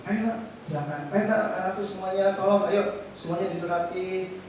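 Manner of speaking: teacher gently settling her pupils; gentle coaxing. Retold or imitated. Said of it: "terus lembut".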